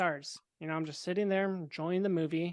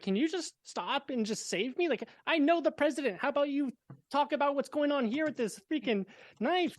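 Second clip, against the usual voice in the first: retold annoyance; 8 semitones higher than usual. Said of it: "I'm just so pissed off".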